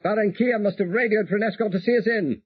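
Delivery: radio pilot relaxed and confident; voiced pilot Peter. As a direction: play Peter calmly reporting in.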